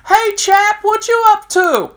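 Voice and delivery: bright, high cheerful greeting; very cheerfully. Retold or imitated. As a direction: call up cheerfully from the top tier. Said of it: "he says very cheerfully".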